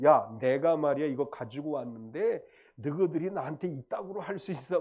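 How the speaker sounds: mildly irritated complaint, acted out; mock temper. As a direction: imitate someone indignantly telling others off, without shouting. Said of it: "막 성질을 내고". (살짝 성질내는 흉내)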